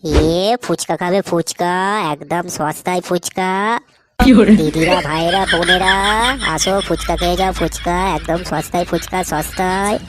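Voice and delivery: slow, drawn-out vendor's call; street hawker's cry. Acted. Fuchka seller calls to passers-by, drawn-out hawker's cry. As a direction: stretch the words out to draw in customers.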